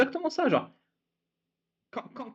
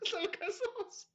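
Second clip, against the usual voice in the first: laughing; 14 semitones higher, 11 dB quieter, slower than usual. Real, not acted. Laughs at absurdity.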